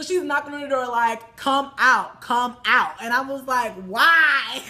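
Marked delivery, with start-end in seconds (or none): 1.4-2.9 loud, punchy mock demand; calling out. She bangs on the door to get them out, calling out. 3.8-4.6 loud, drawn-out protest; exasperated cry. Retold or imitated. Speaker answers the woman at the door, exasperated cry. Acted reaction to being summoned.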